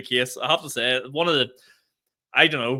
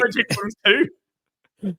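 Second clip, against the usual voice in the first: mock surprise; 6 semitones higher, 5 dB louder than usual. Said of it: "I was like".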